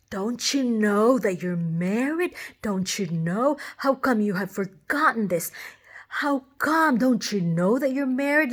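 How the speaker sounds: a touch of angry husband, pressing the question; imitating angry husband. Husband confronting his wife in her dream, mock angry. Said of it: "like, like this".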